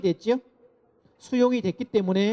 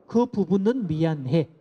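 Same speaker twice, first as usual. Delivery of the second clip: slow, deliberate "그 부분은 미안해"; slow demo apology; 3 semitones lower, slower than usual. Shown as a demonstration. Lecturer to parents, slow demo apology. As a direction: model the limited apology slowly. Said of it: "따라해 볼까요".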